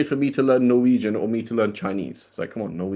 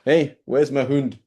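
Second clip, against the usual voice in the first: put-on slow, jokey Scottish accent; a light Scottish accent, teasing; mock Scottish accent; 3 semitones higher, slower than usual. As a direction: play a Scot looking for his hund, slow. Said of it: "basically a Scottish hund".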